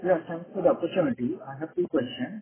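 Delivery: very faint, far from the mic; speaking too softly into the phone; barely audible. Real, not acted. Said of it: "your voice is very low".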